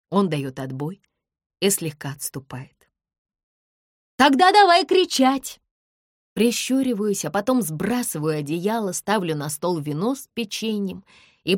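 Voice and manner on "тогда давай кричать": much higher, loud joyful yell; fired-up yell; shout. A narrator's reading. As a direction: shout it down to the street. Heroine shouts down from balcony.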